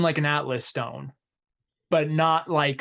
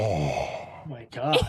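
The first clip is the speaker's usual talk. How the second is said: voice changer; 7 semitones lower, 4 dB quieter, much slower than usual. Pretend.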